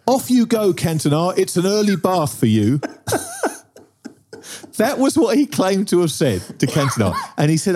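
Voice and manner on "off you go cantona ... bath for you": lightly mocking, bright and high; mock the fan's jolly excuse; a hint of a jaunty taunt; cheery quote. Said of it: "what he said to Cantona was".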